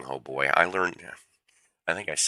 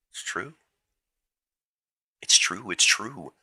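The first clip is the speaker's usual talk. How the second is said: Kurt Angle catchphrase; 6 semitones higher than usual. Retold or imitated. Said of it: "As Kurt Angle would say".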